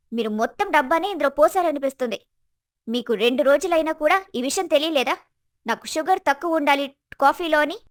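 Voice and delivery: acted anger, moderately heated; angry outburst. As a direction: scold like an outraged, demanding sister-in-law. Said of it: "ఆమె ముఖం కోపంతో ఎర్రబడింది".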